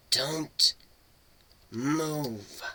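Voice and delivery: breathy unvoiced whisper. A narrator's reading. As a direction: barely breathe the warning. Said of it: "Selma's voice was now a mere whisper".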